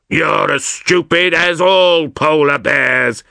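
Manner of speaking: slow, cheeky walrus voice. Acted. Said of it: "replied this extremely cheeky walrus".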